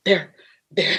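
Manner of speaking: gasp, then halting stammer; nervous, shaking. Retold or imitated. Mother seeing an angel by the bed, imitated nervous stammer. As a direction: imitate a shaken mother catching her breath. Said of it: "she was nervous, she was shaking".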